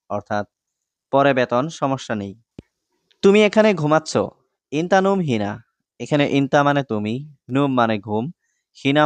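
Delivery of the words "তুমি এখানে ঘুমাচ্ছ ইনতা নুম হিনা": mock-stern boss scolding; acted scolding boss. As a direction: catch the worker napping and call him out. Acted boss catching a sleeping worker.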